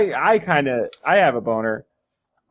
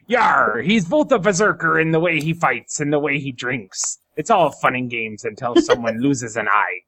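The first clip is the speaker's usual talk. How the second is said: pirate voice; 3 semitones lower than usual. Acted. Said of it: "I'm just gonna go with the pirate voice".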